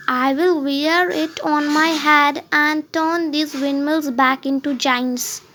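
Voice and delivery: slow, lightly voiced deluded knight; a hint of a dreamy old knight; Don Quixote. Don Quixote boasting to Sancho, slow and dreamy.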